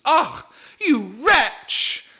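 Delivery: high, slow outraged shriek; outraged bee cry. Acted. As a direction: spit it out in disgust. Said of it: "and says".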